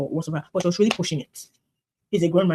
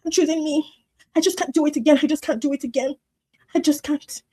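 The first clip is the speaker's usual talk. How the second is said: mocking Tyler's "choosing me"; 8 semitones higher than usual. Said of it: "And she's like".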